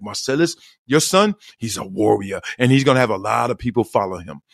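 imitating a Moroccan soccer coach; lightly put-on Moroccan accent; a hint of a Moroccan coach's accent. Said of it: "this is how he sounded".

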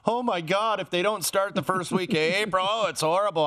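high, whiny overreacting fan voice; mock panicked fan. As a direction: ham up a fan's panic. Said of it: "I wasn't one of these people like".

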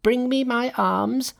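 high, drawn-out battle call; crying out. A narrator's reading. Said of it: "cried Monkey".

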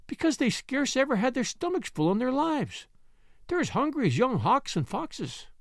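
hint of a cheerful Yorkshire lass; Yorkshire maid Martha. A narrator's reading. Martha explains hunger.

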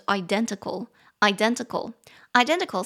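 identical with the DEN syllable punched; stress on second syllable. Shown as a demonstration. Teacher drilling the word for viewers, stressing DEN. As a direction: drill identical three times, hitting DEN. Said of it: "重音节在第二音节，identical".

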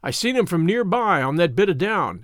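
lightly voiced, insistent rustic elder; old country shepherd. Shepherd telling boys about the neglected field, mildly insistent. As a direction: lay it out in mild country dialect.

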